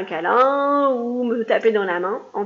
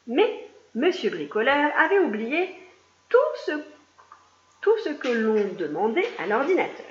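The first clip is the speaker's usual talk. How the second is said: lively read-aloud storytelling voice; reading a picture book to young pupils; story narration. A narrator's reading. Teacher reading a story aloud to her class, lively.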